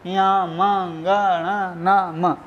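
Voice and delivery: या, मा, गा, णा, ना, म voiced through the nose; nasal consonants. Shown as a demonstration. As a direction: demonstrate या, मा, गा, णा, ना, म as separate nasal sounds. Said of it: "उच्चारण स्थान नासिका के माध्यम से".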